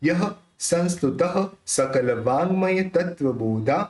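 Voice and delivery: spoken verse recital, syllables distinct; pronunciation model. Shown as a demonstration. Teacher showing how it comes out, clear spoken recitation. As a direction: recite the line in speaking rhythm. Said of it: "कैसे निकलेगा".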